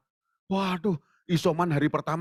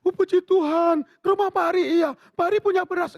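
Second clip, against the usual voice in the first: high, louder glad exclamation; relieved widow; 5 dB louder than usual. Retold or imitated. Widow thanking God the pastor has rice, high and glad.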